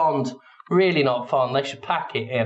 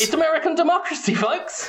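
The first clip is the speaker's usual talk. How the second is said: bright, fast showman sign-off; mock host voice; 12 semitones higher, faster than usual. Host tosses a joke to the audience, fast showman sign-off. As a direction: sell the punchline like a TV host.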